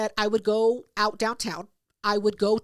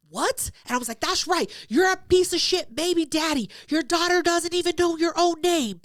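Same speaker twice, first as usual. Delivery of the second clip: higher, louder mock rant at the brother; loud public callout; 4 semitones higher than usual. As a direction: make a scene for the whole street. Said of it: "because I'm loud as fuck".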